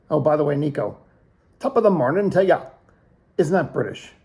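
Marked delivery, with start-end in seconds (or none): 1.6-2.7 quick, higher mock-Irish lilt; lightly put-on Irish greeting; Irish accent. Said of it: "It's Irish".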